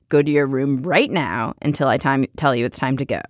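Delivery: measured parental telling-off; firm, controlled reprimand, acted out; retold stern order. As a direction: lay down the law, without raising the voice. Retold scolding of her child.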